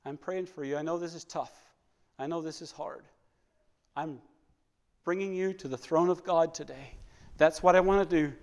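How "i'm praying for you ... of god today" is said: gentle comfort. Pretend. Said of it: "call them up and say".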